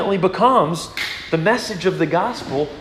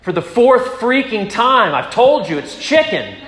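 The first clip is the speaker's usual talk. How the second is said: exasperated retort; 6 semitones higher, 3 dB louder than usual. Retold or imitated. Wife exasperated, fourth time asked.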